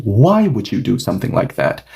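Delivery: "Why" leaned on as the main word; stress on why. Shown as a demonstration. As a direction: press the question on "Why". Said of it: "So I'm more focused on why".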